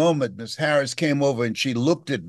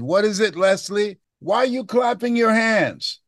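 a hint of the mother, higher; mother answering; 8 semitones higher than usual. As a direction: lightly voice the mother answering her son. Mother voiced in story.

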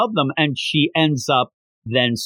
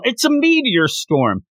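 high excited announcer call; announcer yell; 9 semitones higher than usual. Retold or imitated. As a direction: announce it to the whole stadium. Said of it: "Crescent Mike yell".

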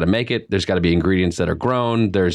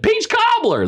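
excited yell; slower than usual. Retold or imitated. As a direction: call out across the store, thrilled. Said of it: "I did scream her name".

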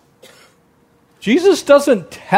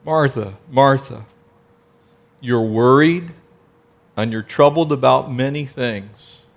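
gentle tenderness; 4 semitones lower, 3 dB quieter than usual. Acted. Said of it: "notice the tenderness".

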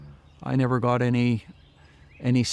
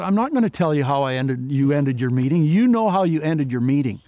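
raised, heated insistence; defiant retort; 4 dB louder than usual. Retold or imitated. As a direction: push back hard, a touch of anger. Heated exchange with the pastor.

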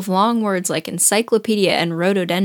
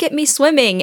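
lightly voiced squeaky Roo, proud; a hint of a proud little squeak; bubbling proudly; 6 semitones higher than usual. A narrator's reading. Baby Roo showing off his swimming, proudly. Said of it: "he's bubbling proudly".

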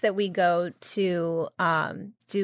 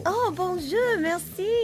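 mock French; 10 semitones higher, slower than usual. Greeted as Mademoiselle, answers French.

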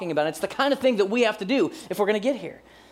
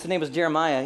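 ordinary delivery

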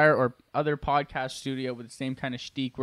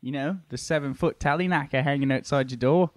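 put-on British accent. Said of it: "British humor".

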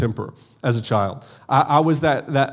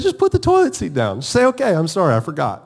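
exasperated spouse; 3 semitones higher than usual. Retold or imitated. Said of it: "It's like".

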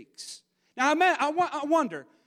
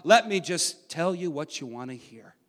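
loud mock enthusiasm sinking to a low, dismissive drone; sarcastic; 3 semitones lower, 6 dB louder than usual. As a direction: sarcastically humour them, trailing into blah-blah. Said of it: "And sarcastically, Micaiah, he responds".

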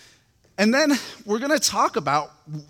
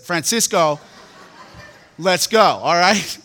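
angry challenge; 6 dB louder, slower than usual. Retold or imitated. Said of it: "my anger had overtaken me".

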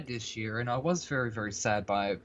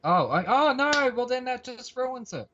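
high, dramatic mock dismay; 9 semitones higher, 3 dB louder than usual. Real, not acted. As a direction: play up the shock and disappointment. Mock dismay at guest's pick.

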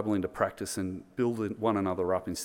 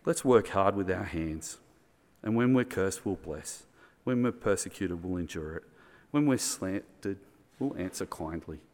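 calm, gentle reading; 2 semitones lower than usual. Acted. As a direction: lay the words down gently, almost prayerful. Reading Paul's words, calm.

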